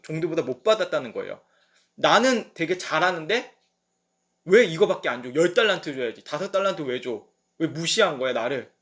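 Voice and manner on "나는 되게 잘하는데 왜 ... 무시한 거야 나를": louder, indignant servant complaining; a servant who got one talent, mildly angry; mock angry servant. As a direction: grumble it like a slighted servant. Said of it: "화를 내는 거예요".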